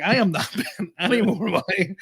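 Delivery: refusing to pay again, defiant and amused; defiant refusal. Retold or imitated. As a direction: dig your heels in, half laughing. Arguing with the ticket guy.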